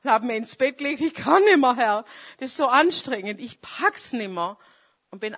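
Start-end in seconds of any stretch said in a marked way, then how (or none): 1.0-4.6 a hammed-up offended kid; sulky child. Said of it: "wie so ein beleidigtes Kind".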